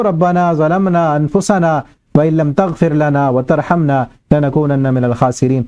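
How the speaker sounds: slow, measured recitation of the verse; Quranic recitation. Shown as a demonstration. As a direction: recite the Arabic slowly with tajweed. (قرآنی آیت کی دھیمی تلاوت)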